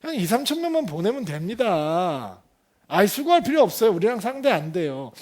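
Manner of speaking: mock cocky dismissiveness. Preacher voices overconfident Israel sizing up Ai, mock cocky dismissiveness. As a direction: wave it off lightly, dragging the first words. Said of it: "이스라엘은 어떻게 변했어요?".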